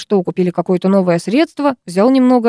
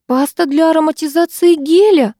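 sobbing; 9 semitones higher, 3 dB louder than usual. A narrator's reading. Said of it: "всхлипнула Краузе".

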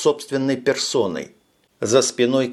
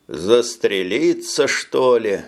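pensive; slower than usual. Acted. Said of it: "задумчиво сказал он".

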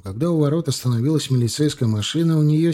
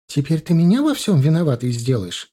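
indignant outcry; 4 semitones higher than usual. Acted. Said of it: "вскричала Нина Георгиевна".

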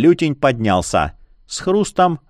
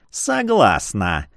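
beaming; 3 semitones lower, much slower than usual. Acted. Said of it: "просияла упырица".

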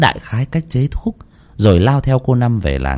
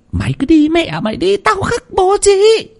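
much higher, cackling crone-like scold; an old village healer cursing the fool; scolding old woman. A narrator's reading. Old woman dismisses Bắc. (giọng bà già cao vút mắng chửi)

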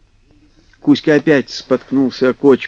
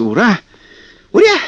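very high, loud whoop; yelling kikimoras; 3 dB louder than usual. A narrator's reading. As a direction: cheer wildly like swamp sprites. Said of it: "завопили кикиморы".

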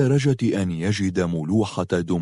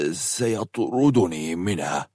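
matter-of-fact; 3 semitones lower, 3 dB quieter, slower than usual. A narrator's reading. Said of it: "قال حسن ببساطة".

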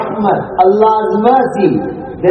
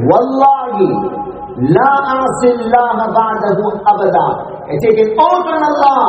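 raised, emphatic vow; fervent oath; 4 semitones higher than usual. Acted. Kifl swears by Allah after her reaction, fervent. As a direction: swear it out with rising conviction.

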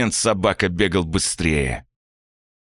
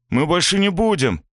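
bleating plea; 9 semitones higher than usual. A narrator's reading. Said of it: "заблеял Никитос".

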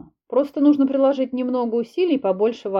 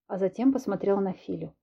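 ordinary delivery, nothing marked

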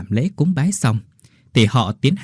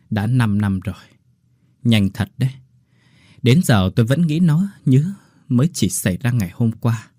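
sighing sadly. Acted. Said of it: "bà thở dài".

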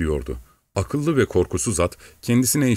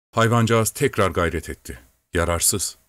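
ordinary delivery

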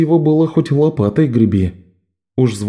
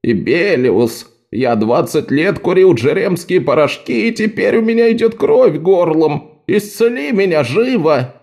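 high demanding mock patient; whiny patient voice; 6 semitones higher than usual. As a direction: mimic a pushy patient. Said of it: "ко мне с такими речами".

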